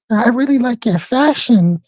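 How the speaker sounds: imitated Eastern European accent; high-pitched Eastern European accent. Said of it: "in that Eastern European accent".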